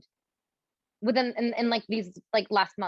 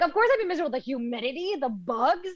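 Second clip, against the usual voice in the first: mock exasperation; 2 semitones higher than usual. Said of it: "I'm like".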